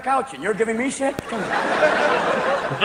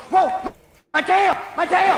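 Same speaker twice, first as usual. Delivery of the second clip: dog voice; 9 semitones higher than usual. Retold or imitated.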